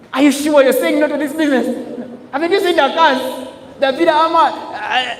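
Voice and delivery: high, loud, laughing disbelief; mock incredulity. Mentor to a prospect saying no, mock incredulous. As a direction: challenge them as if their no is absurd.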